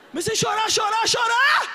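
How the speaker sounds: loud, high, building cry of chorar; overwhelmed shout of chorar. Real, not acted.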